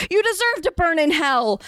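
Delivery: a high hammed-up shriek; mock shriek. A narrator's reading. Harry shrieking damnation at Voldemort, mock high shriek. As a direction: pitch it way up in mock zeal. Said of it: "Harry shrieked knowingly".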